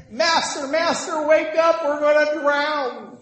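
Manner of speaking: high, loud cry of terror, acted out; hammed-up frantic wail, drawing out the final word; panicked imitation. Disciples waking Jesus as they drown, panicked cry. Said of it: "they're so afraid".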